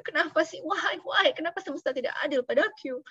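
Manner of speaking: hammed-up self-pity; mock weeping complaint. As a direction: whimper it like someone pitying themselves. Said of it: "dan lo hanya weeping gitu".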